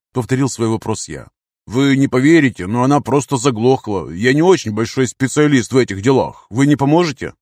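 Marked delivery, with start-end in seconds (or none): 1.7-7.3 a slightly raised, louder voice asking for help; mildly apologetic farmer explaining a breakdown; a hint of a helpless motorist; lightly voiced stranded farmer.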